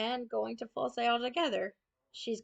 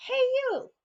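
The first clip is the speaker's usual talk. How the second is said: high, loud shout across the street; calling out; 7 dB louder than usual. Retold or imitated. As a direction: call out to someone far off.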